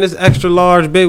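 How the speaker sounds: high, loud, outraged complaining; hammed-up high-pitched outrage; indignant customer. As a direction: squeal it like a cheated shopper. Complaining about a wrong-size baby.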